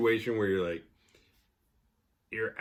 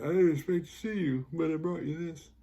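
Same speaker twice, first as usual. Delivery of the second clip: higher, hammed-up romantic offer; higher mock suitor; 7 semitones higher than usual. Suitor giving a girl a present, higher and hammed-up. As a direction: play the eager suitor, pitched up. Mocking a suitor's gift line.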